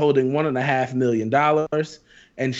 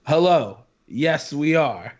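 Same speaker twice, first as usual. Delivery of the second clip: mock formal reply; much slower than usual. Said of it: "email that says".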